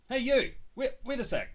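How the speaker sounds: shouted high after him; calling out. Acted. Phoenix calls after the fleeing boy, shouting high. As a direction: yell to stop the runaway.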